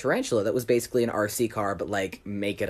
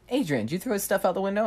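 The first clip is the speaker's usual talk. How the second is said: bus driver; 7 semitones higher, faster than usual. Retold or imitated. Bus driver questions narrator.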